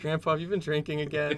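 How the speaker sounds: put-on high, pleading kid confronting grandpa; disappointed grandchild. Playing grandchild confronting drunk grandpa.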